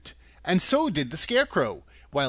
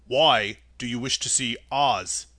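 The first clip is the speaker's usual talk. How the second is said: Tin Woodman voice; 4 semitones lower than usual. Acted.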